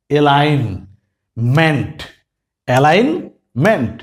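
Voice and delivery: অ্যালাইনমেন্ট said very slowly, every syllable drawn out; slow demo. Shown as a demonstration. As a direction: draw অ্যালাইনমেন্ট out slowly for the class. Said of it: "দেখেন". (ধীরে ধীরে অ্যালাইনমেন্ট উচ্চারণ)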